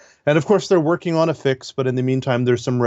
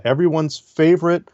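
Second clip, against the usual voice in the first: dry, understated sarcasm; sarcastic; 2 semitones higher than usual. Real, not acted. Co-host jokes about an unloved search program, sarcastic. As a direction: say it sincerely enough to be obvious sarcasm. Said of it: "This is my sarcastic voice, in case you can't tell".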